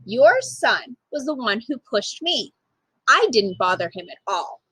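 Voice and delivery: a lightly voiced calm, firm girl; calm but firm. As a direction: calmly hold your ground. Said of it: "calmly but firmly I explained".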